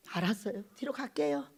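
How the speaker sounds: low, soft, subdued reply; retold obedient giving-in; meek compliance. Preacher obeys the order to step back, meek hush.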